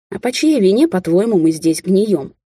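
barking, indignant king; tyrant king. Acted. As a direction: snap it out like an angry monarch. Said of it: "рявкнул король".

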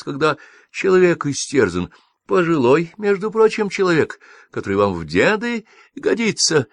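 high, rising, slightly slowed scolding; a woman tipping into hysterics; hysterical outburst. A narrator's reading. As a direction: lose control as you scold. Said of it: "началась истерика".

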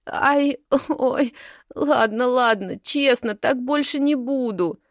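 whining. A narrator's reading. Caught snowflake whines she won't do it again. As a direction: whimper out the promises. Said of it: "захныкала Снежинка".

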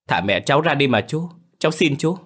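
put-on high, imploring child's plea; tearful pleading, acted. A narrator's reading. Child begging the man to free mother, high tearful plea. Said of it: "Tôi vừa khóc vừa van xin".

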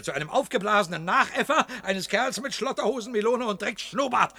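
fast, laughing insult; scornful laugh. Acted. Cellar man laughing scornfully at the puffed-up leader.

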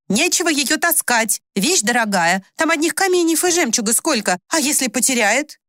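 a worried mother refusing firmly; stern mother. A narrator's reading. Faina refuses to let her daughter wear the brooch, sternly.

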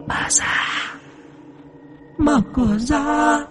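slow, eerie demon voice through the door; a demon coaxing the old woman to open the door. Acted. Demon taunts, high, far. (giọng quỷ rợn người, chậm rãi)

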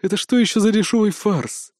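growled, in a changed voice; an angry growl, understated. A narrator's reading. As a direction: growl at the cheap trick. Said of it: "прорычал Локи".

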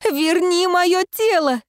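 anguished outcry; crying out. Acted. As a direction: demand your body back in despair. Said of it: "вскричала Алоэна".

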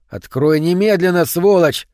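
loud furious demand through a door; angry shout. Acted. Man shouting through locked door, furious. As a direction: bang on the door and yell it.

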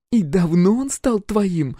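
put-on slow, high sarcastic young woman; mock him slowly from the floor; slow high mocking girl. Roxy mocks the captain, slow high sarcasm.

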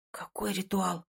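hushed, scared question; whispered. A narrator's reading. Frightened girl whispering to two strangers. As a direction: breathe it out in fear. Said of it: "прошептала".

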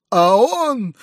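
high shriek. A narrator's reading. Foma shrieks at the uncle, high. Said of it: "визжал Фома".

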